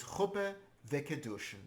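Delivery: "vekiddushin" ending in a quick shn, no ee; last yud silent. Shown as a demonstration. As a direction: say "vekiddushin" with the final vowel reduced, ve-ki-DU-shn. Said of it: "don't pronounce the last yud".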